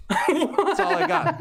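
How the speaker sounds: high, laughing through the words; giggling it out. Real, not acted.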